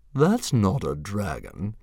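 bully dragon scoffing. A narrator's reading. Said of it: "scoffed Fireworm".

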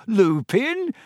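high, rising disbelief; incredulous question. Acted. Harry scoffing at Ron's guess, incredulous.

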